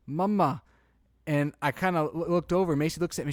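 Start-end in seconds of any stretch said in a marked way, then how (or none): 0.1-0.6 put-on light baby voice, a bit higher; baby saying mama. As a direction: mimic the baby's first word. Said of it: "she kinda just goes".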